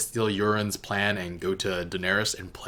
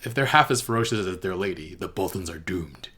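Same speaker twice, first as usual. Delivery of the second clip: put-on second try at Davos accent; 3 semitones lower than usual. Quoting Davos to Lyanna again, retrying his accent. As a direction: take another run at Davos's accent, landing the end. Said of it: "I can't do his accent".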